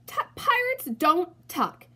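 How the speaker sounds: gruff pirate scoff. Acted. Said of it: "he bellowed".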